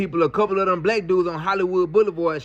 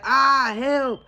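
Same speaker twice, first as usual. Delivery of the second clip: higher, mock cry for help; mock scream; 6 semitones higher, much slower than usual. Woman in the restroom faking a scream for help. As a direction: squeal for help in a retold panic. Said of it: "she started screaming".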